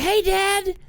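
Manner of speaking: put-on high, bored child greeting; flat little girl voice. Younger daughter barely greeting dad, high and bored. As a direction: say it like a kid who doesn't care. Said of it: "she was like".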